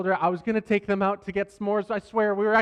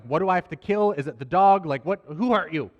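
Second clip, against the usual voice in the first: protective dad demand; 5 dB louder than usual. Retold or imitated. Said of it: "I'm just like".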